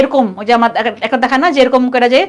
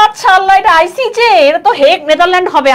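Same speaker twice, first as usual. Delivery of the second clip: higher-pitched mock exclamation; retold dismayed realisation; 5 semitones higher than usual. Student to teacher after missing an exam answer, mock dismay. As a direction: imitate a student suddenly catching the mistake.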